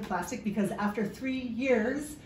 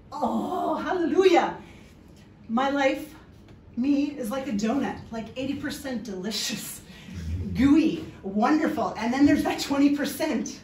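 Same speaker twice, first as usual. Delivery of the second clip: retold epiphany; 4 semitones higher, 4 dB louder than usual. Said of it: "I kind of went".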